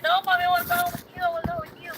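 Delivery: put-on very high, fast little girl pleading; crying child voice. Mother voicing her crying daughter, high pleading. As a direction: imitate a sobbing daughter begging. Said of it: "She's like".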